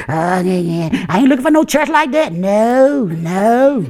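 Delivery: low, dismissive voice of a member looking for a church to rule; church hopper. Retold or imitated. Church hopper tells the pastor he wants another church, low and dismissive. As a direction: wave it away in a low voice.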